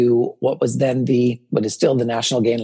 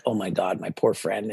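mock pity; 5 semitones lower, 7 dB quieter than usual. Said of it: "Phil's like".

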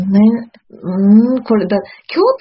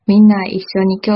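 Kyoto dialect; 4 dB louder than usual. Acted. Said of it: "イントネーションも京都風でお願いします".

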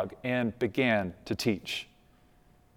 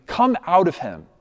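stern command; 4 semitones higher, 3 dB louder than usual. Acted. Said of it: "said Jesus sternly".

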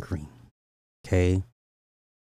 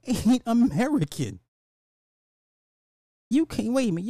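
pitched way up in disbelief, laughing; high laughing rant; 11 semitones higher than usual. Real, not acted. Commentator mocking Idris Elba's grandfather claim, high and laughing.

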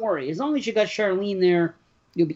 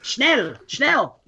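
put-on Schnell, schnell with a light German accent, a bit higher; mock German; 5 semitones higher than usual. Teasing about the German shepherd, playful mock German. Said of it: "start speaking German to it".

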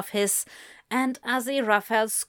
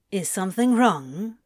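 customer service voice. A narrator's reading. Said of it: "in his damned customer service voice".

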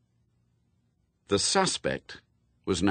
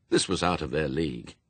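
usual speaking voice

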